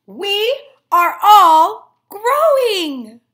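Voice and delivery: slow, loud, laughing chant; giggly grass chorus. Acted. Grass blades cheering, laughing loudly. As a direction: sing it out with a laugh.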